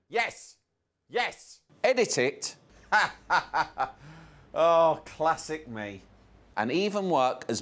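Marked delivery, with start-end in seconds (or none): 0.1-2.6 excited director. Acted. Gallery director excitedly approving.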